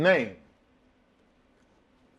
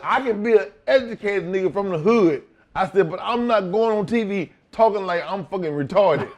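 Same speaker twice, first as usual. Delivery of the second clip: defiant laughing retort; 6 semitones higher, 5 dB louder than usual. Retold or imitated.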